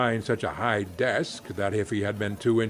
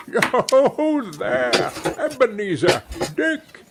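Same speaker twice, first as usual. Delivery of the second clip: jovial hearty call, higher and louder; comfortable, oily, rich; 10 semitones higher, 5 dB louder, slower than usual. A narrator's reading. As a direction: boom out a jolly boss's greeting. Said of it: "called out in a comfortable, oily, rich".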